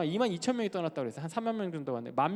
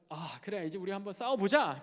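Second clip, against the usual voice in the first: excited crowd talk, pitch climbing; fired up; 2 semitones higher than usual. Acted. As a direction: spread the rousing news eagerly. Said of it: "이렇게 파이어업 돼서". (들뜬 군중처럼 흥분해서)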